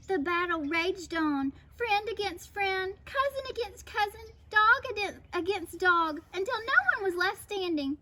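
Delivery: measured, expressive storytelling; children's story narration. A narrator's reading. Narrator tells of raging battle, expressive storytelling. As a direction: tell it to children with rhythmic lists.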